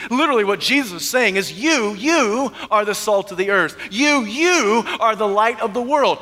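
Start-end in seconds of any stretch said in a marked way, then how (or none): 1.5-6.2 "You, you" doubled, with weight on each; emphatic YOU. Retold or imitated. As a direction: lean hard on both words of "You, you". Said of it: "in emphatic position".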